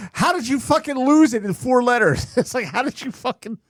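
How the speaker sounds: high-pitched incredulous complaint; mock exasperation. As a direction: demand it in laughing disbelief. Mock disbelief at the accent.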